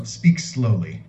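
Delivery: slow gloss. Shown as a demonstration. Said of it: "shorten it".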